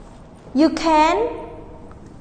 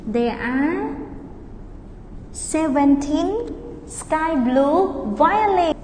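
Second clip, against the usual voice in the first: slow model answer; 3 dB quieter, slower than usual. Shown as a demonstration. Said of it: "teacher models answer".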